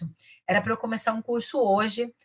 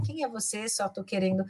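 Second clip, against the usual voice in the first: friendlier. Shown as a demonstration. Teacher acting out meeting someone new, friendly. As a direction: ask gently, just wanting to get acquainted. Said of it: "mais simpático".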